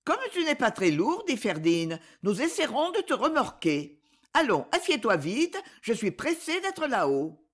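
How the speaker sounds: hint of a young girl urging a friend; lightly voiced girl. Girl Ferdinand's dialogue voiced.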